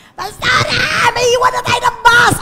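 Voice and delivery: high, loud call that the bus is leaving; urgent shout. Retold or imitated. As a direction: yell to hurry the pastor. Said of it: "sabi ni Ma'am Les". (sigaw ng kasama na maiiwan ng bus)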